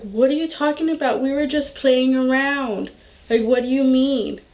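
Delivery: quick, put-on innocence; all innocent. Mom's partner denies he hit her, mock innocent. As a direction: play innocent, brushing off an accusation. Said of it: "all innocent".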